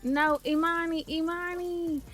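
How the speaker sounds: loud, high, urgent calls for help; panicked shouting. Real, not acted. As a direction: yell in alarm as the fire spreads. Kitchen fire breaks out in game.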